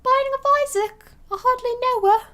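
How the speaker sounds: silly high announcer intro. Pretend. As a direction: boom it out like a game-show host. Silly voice joke.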